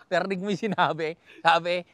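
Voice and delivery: laughing loudly while asking. Real, not acted. Telling viewers what the goose said, laughing out loud. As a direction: share the joke through laughter.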